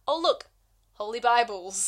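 oversell it like a thrilling find; mock delight. Bored wife finding Bibles, in mock delight.

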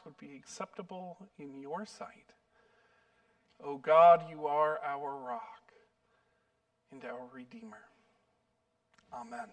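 solemn pulpit prayer. Real, not acted. Prays before the sermon.

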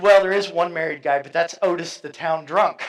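amused laugh over the quote; laughing retelling. Retold or imitated. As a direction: tell the punchline while cracking up. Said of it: "I thought that was kind of amusing".

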